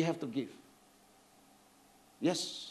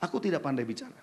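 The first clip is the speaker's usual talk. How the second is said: low, soft, meek mumble of a shy man; quietly putting on a timid voice; mock timid excuse; 11 semitones lower, 8 dB quieter than usual. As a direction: sound small and unsure of yourself.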